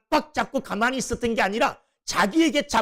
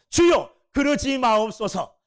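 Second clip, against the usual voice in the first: protesting Peter. Retold or imitated. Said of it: "막 흔들면서".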